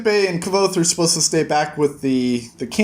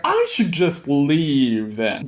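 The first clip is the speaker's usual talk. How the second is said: dry remark; much slower than usual. Retold or imitated. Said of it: "Hepe's like".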